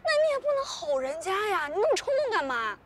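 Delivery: 带着哭腔责备; tearful scolding. Acted. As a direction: scold him through tears. Girlfriend scolding her boyfriend after being fired.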